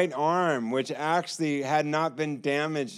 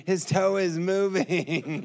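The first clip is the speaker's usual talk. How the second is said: slow, higher, thrilled announcing; excited report; 4 semitones higher than usual. Retold or imitated. Nurses telling others the toe moves, slow excited voice. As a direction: relay the thrilling news.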